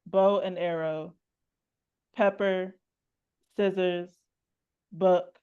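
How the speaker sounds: measured poem recital with long pauses; poetry reading. Acted. Host reads her warm-up poem to the audience, measured poetry reading. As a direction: recite it line by line, letting each image sit.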